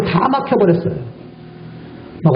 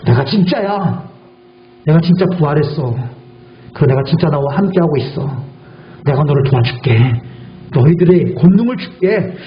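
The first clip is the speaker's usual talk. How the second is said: voice of Jesus. Acted. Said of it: "그러면서".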